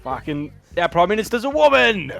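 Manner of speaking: put-on loud, hammy New Zealand accent. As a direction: ham up a heavy Kiwi accent. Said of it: "What the New Zealander accent?".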